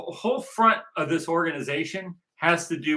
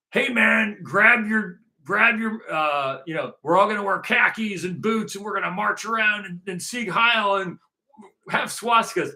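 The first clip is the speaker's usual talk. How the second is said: mocking neo-Nazi recruiter; 4 semitones higher than usual. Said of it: "this thing of like".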